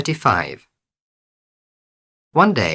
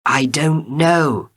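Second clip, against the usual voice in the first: shouted back; 7 semitones higher, 3 dB louder, slower than usual. A narrator's reading. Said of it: "Nasruddin shouted back".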